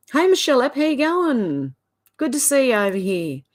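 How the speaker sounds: high, sing-song welcome; delighted greeting. Real, not acted. Streamer welcoming Michelle to the chat, high delighted greeting. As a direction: greet them brightly, pitched right up. Calls out greeting to arriving viewer.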